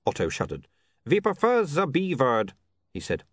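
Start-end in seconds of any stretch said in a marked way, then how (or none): 1.0-2.5 "We prefer the B word" with w said as v: vi, ze, vord; Uberwald accent. A narrator's reading. Otto insists on a euphemism.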